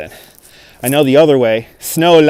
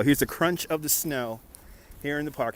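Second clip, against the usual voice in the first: hushed ASMR voice, much softer; ASMR quiet; 18 dB quieter than usual. Real, not acted. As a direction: drop to a soft ASMR murmur. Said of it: "Here's, here's some A S M R".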